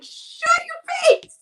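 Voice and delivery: high, slow, drawn out and clearly put-on; mock outraged hush. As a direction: stretch it out in a mock scolding. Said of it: "I was like".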